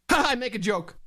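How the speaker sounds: put-on European accent after a big "Ha"; mock European accent. Host, still in character, owns his joke, mock European accent. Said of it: "Your accent is great".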